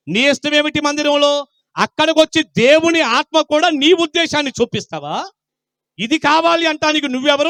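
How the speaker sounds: high, insistent preaching voice; forceful confrontational preaching. Real, not acted. Preacher challenging offended churchgoers about his message, forceful. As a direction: press each question hard on the listeners.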